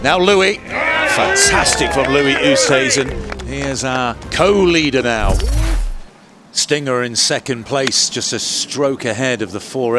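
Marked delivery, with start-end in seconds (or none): 0.0-5.3 rising excited shout over a putt; excited call. Real, not acted. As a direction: call the putt with a burst of joy.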